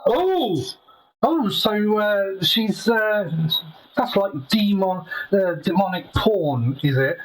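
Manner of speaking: distant, hollow mic sound; sounding far off, like in a well. Real, not acted. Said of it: "you do still sound like you're at the bottom of a well".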